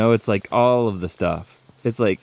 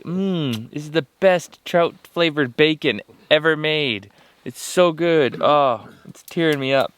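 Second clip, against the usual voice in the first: hammed-up delight over fish; mock bacon delight; 5 semitones higher than usual. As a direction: savour it like the best bacon. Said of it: "pretend each bite is like bacon".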